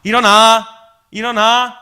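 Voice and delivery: imitating mom losing patience; mother boiling over. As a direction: holler like a fed-up mom. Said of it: "부글부글 끓기 시작했어요".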